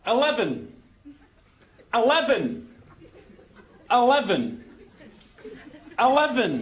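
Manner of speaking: "Eleven" over and over with the same falling tune; identical stubborn repeats. Acted. Scot wearing down the lift, "Eleven" said identically each time. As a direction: repeat "Eleven" unchanged, stressed in the middle, falling. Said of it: "You're just saying it the same way".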